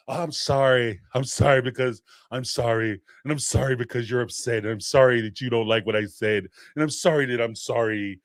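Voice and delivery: mock the endless sorry; mock over-apologizing.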